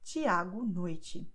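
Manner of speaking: very slow Tiago noite with ch sounds for T. Shown as a demonstration. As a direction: draw out Tiago noite, each T as ch. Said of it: "just compare these examples here".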